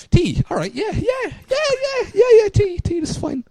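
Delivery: high, rushing nervous yeses, climbing up; a teen bluffing that making tea is fine; flustered panic. Retold or imitated. High nervous panic, reassuring herself about tea.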